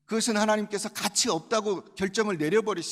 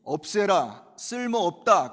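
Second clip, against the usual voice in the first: God's command; 7 dB louder, slower than usual. Acted. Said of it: "하나님이".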